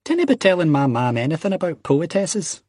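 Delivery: high, insistent Scottish warning; mildly indignant, firm telling-off. A narrator's reading. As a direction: warn him off, pitched well up. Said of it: "Ian said firmly".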